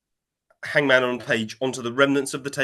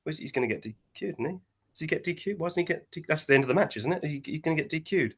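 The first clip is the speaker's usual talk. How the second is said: murmuring crowd; 6 dB quieter, faster than usual. Retold or imitated. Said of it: "you just hear people going to each other".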